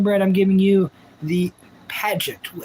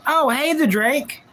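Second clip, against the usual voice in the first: Forrest Gump voice; 6 semitones higher than usual. Pretend. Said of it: "my Forrest Gump wave".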